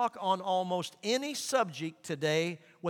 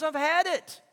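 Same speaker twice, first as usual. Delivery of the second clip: God's voice; 9 semitones higher, 6 dB louder than usual. Retold or imitated. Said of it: "God says".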